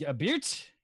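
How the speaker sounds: apologetic Canadian with rounded "sorry"; Canadian accent. Shown as a demonstration. Impressionist asked for a Canadian, apologetic Canadian accent. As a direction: overdo the Canadian vowels.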